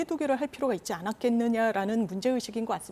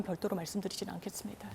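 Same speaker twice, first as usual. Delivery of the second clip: whispered aside; 3 semitones lower, 12 dB quieter than usual. Real, not acted. Aside, measured unvoiced.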